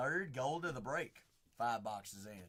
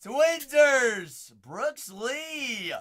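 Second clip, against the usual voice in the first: loud, high whoop; excited cheer; 8 semitones higher, 10 dB louder, much slower than usual. Real, not acted. Breaker celebrates a Twins autograph, loud high cheer.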